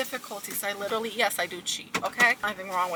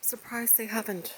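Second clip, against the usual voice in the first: whisper; 10 dB quieter than usual. Real, not acted. Quiet remark on the trail.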